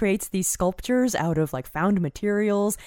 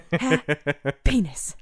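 slow; much slower than usual. Shown as a demonstration. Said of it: "practicing happiness".

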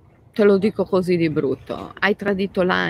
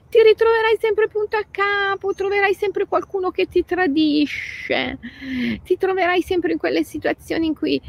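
high emphatic preaching; 12 semitones higher than usual. Real, not acted.

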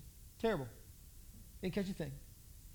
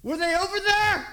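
much higher, louder put-on voice; the stranger smugly calls out, much higher and louder; mock bystander; 11 semitones higher, 10 dB louder than usual. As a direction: crow it smugly.

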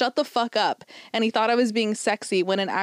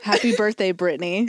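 creepy tone. Acted. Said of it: "said in the creepiest tone ever".

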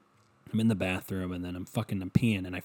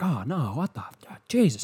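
play-acting shock at the water fountain; fake surprise; 4 semitones higher than usual. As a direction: pretend dismay, jumping up on "Jesus". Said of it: "acted it a little bit".

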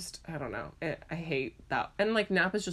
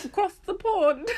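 laughing; 13 semitones higher, 7 dB louder than usual. Real, not acted. Laughing at a joke.

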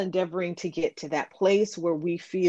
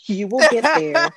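words bubbling with laughter; laughing; 7 semitones higher, 8 dB louder than usual. Real, not acted. Laughing while quoting her friend's teasing.

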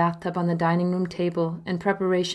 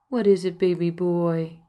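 cooing. Acted. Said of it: "I coo to him".

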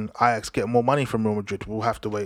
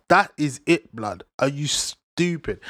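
mock outrage; 3 semitones higher, slower than usual. Mock outrage at transfer news.

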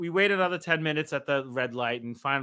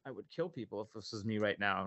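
seething under breath; 7 semitones lower, 10 dB quieter than usual. Retold or imitated. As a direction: lower and much softer, quietly seething. Seething inner thought.

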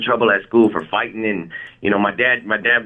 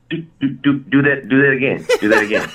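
amazed laughing; 3 semitones higher than usual. Retold or imitated. Brother amazed, wants it again.

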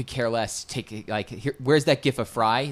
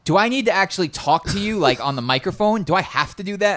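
higher-pitched imitation of a worried friend; mock-anxious, pitched-up pleading questions; mock reluctant questioning; 8 semitones higher, 4 dB louder than usual. Friend reading out her text about the microphone, mock reluctant questioning. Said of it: "you texted me and were like".

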